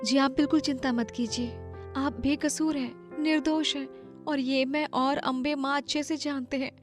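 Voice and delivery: soft, reassuring wife. Acted. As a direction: gently comfort him. Wife comforting jailed husband.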